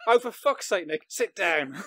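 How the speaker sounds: mock exasperation through laughter; laughing retelling. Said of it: "Just me going".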